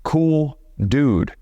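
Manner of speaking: mock whiny, unconfident voice; a hint of a whiny nervous guy; whiny nervous dude. Shown as a demonstration. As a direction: imitate an insecure guy trying to sound cool. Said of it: "nervous, whiny, not confident".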